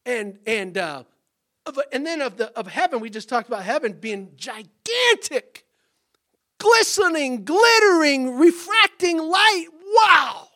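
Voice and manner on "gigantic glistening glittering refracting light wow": rising, loud awestruck exclamation. Acted. Preacher describing heaven's glory, loud and awestruck. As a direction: marvel aloud, slowing at the end.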